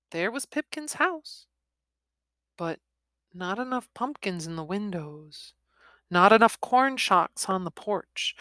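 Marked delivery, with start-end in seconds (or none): none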